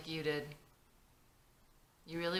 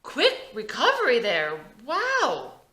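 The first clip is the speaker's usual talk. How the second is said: hiding pain; 8 semitones higher, 10 dB louder than usual. Acted. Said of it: "tries to hide the fact".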